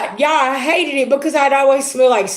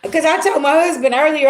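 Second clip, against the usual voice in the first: ordinary talk, nothing marked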